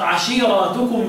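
عشيرتكم with a drawn-out long aa after the r; slow عشيرتكم, lengthened before the ending; plural reading. Shown as a demonstration. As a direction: recite عشيرتكم as a plural, -aatukum. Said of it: "بالجمع".

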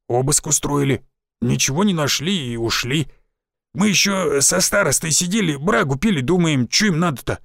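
lightly voiced old village forester; a folksy old woodsman, a touch rough.

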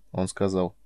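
plain reading voice

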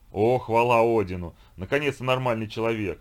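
громкий, медленный радостный возглас; прокричи с облегчением, как викинг. Acted. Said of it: "воскликнул он". (громко и радостно восклицая)

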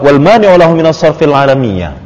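falling close on "alamiyah"; ending intonation. Shown as a demonstration. Teacher shows a complete sentence to the student, ending intonation. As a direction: let "alamiyah" come down as a finished sentence. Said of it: "kita bikin intonasi berakhir".

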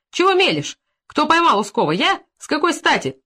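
high, loud indignant questions; indignant outburst. Acted. Sergeant-major indignantly rebuffing the stableman. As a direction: throw the accusation back at him.

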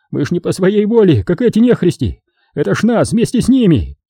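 high, panicky begging, words tumbling out; desperate pleading. A narrator's reading. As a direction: plead as if choking on hysteria, stressing «воле». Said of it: "Отчаянно забормотал он, захлёбываясь истерикой".

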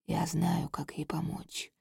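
low, soft ghostly whisper; quiet ghost voice. Acted. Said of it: "раздаётся тихий голос призрака".

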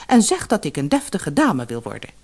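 hoger, klagend en veeleisend; klagende vrouw. Acted. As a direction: zeur om meer. (klagende vissersvrouw)

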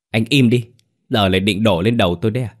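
wife yelling at husband to shut up; angry retort. Acted. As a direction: shut him up, then rattle on fast. Wife snaps back in quarrel.

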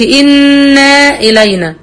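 إن إلينا with an added alif after إن; wrong version. Shown as a demonstration. Teacher showing the forbidden version. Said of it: "ما أقولش".

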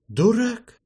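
high, loud snorted insult; scornful snort. Acted. The gang boss snorting at Archi, loud scoff. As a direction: scoff the word out. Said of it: "фыркнул смотрящий".

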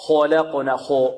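mistaken خلقنا with rounded lips on heavy letters; ضم الشفتين. Shown as a demonstration. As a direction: push خ and ق in خلقنا toward an o sound. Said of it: "لا نضم الشفتين في القاف". (نطق خلقنا بضم الشفتين خطأً)

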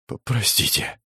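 gasping out a stammered sorry; breathless apology. A narrator's reading. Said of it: "тяжело дышала она". (запыхавшееся извинение)

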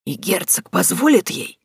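slow, doubtful frail drawl. A narrator's reading. Old woman doubting the duke, drawled. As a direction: draw it out in disbelief. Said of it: "недоверчиво протянула старушка".

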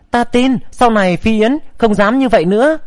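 usual speaking voice

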